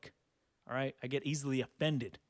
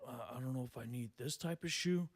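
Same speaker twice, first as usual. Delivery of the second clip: mock indecisive cousin; 4 semitones lower, 8 dB quieter than usual. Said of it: "he's like".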